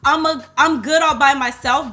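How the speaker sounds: loud, emphatic boast; loud from enthusiasm for the subject; talking loud. Real, not acted. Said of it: "why I'm talking so loud".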